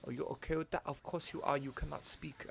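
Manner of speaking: mock Asian accent, softly spoken; play-acted Asian accent, words set apart; put-on Asian accent. Gamer playfully addressing the game's creature, put-on Asian accent. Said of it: "I'm doing an offensive Asian accent".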